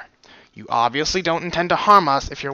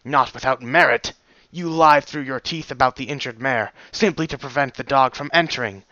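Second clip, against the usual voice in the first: stern reprimand. Acted. Stallion reprimands guard.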